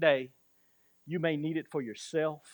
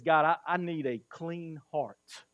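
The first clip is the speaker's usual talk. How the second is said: pleading prayer. Retold or imitated. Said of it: "he says".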